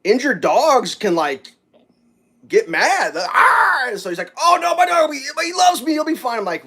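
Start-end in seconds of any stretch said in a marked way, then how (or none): 3.3-3.9 mock angry dog noise. Injured dog getting mad, imitated. 4.4-6.4 high, pleading reassurance; retold high-voiced protest; mock worried owner. Owner brushing off warning, retold.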